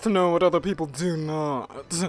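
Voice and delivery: slow, haughty, mannered gentleman; a lightly put-on pompous sleuth; John Pierre voice. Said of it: "my John Pierre voice".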